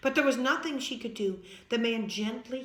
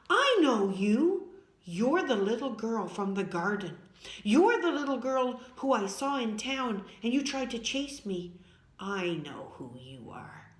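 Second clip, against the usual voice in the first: mean voice; 4 dB louder than usual. Acted. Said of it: "he said in a mean voice".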